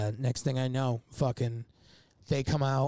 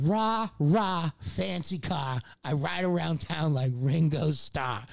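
mock British chant with dropped r's; joke British accent; slower than usual. Songwriter protesting his joke lyric, mock British accent. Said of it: "Can you do a British accent?".

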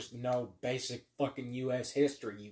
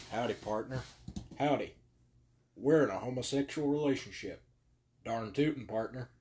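mock cowboy. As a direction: play a gay cowboy for laughs, barely changing voice. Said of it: "that's not something a cowboy would say".

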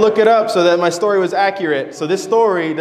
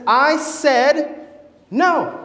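upset father; 9 semitones higher, much slower than usual. Acted. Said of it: "the father then also gets upset".

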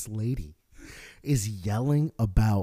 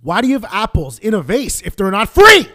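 put-on a raised, demanding old lady; affronted old woman grilling the clerk; indignant old lady; 8 semitones higher, 12 dB louder than usual. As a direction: push the question up, louder and indignant. Old lady demanding about apples.

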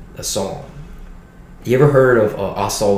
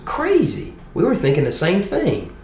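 put-on Southern Baptist old boy; 10 semitones higher than usual. Dean of students reassuring the scared kid, hammed-up high Southern voice. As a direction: play the hearty Southern dean, pitched way up. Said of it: "a good Southern Baptist old boy".

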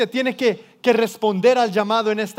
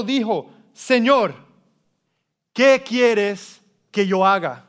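solemn, deliberate Bible reading with long pauses; scripture reading; slower than usual. Acted. Preacher reads Saul's encounter to the congregation, slow dramatic scripture reading. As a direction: draw out each phrase of the holy text.

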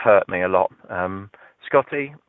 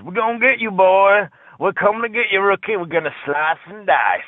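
high, hollering backwoods threat; mock hillbilly taunt; 9 semitones higher than usual. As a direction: taunt the rookie like a hammed-up redneck. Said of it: "whooping and hollering like it was Deliverance".

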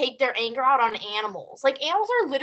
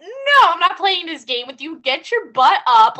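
firm dog command; 4 semitones higher, 8 dB louder than usual. Retold or imitated. Owner ordering her lazing dog to get up, firm and loud. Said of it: "I said".

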